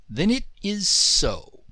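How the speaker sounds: slow, grand decree; genie declaring. Acted. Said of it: "declared the Jinn".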